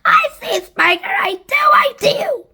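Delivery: high, loud reply; high-pitched excited exclamation; excited aunt. A narrator's reading. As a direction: answer eagerly in a squawky voice. Aunt excitedly answers her sister.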